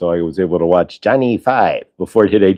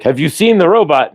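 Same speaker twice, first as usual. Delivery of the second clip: put-on higher-pitched Indian-accented sidekick; 7 semitones higher than usual. Indian sidekick in Short Circuit, mimicked Indian accent. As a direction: ask it in a movie Indian accent. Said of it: "I do a very good Indian accent".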